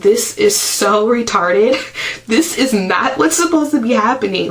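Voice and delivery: laughing in disbelief. Retold or imitated. Mother laughing in disbelief between contractions. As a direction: laugh at the absurdity mid-labour. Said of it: "I was literally laughing".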